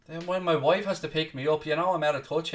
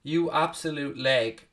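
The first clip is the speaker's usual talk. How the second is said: reading a viewer insult; slower than usual. Retold or imitated. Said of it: "what you're trying to get there with absolute leg".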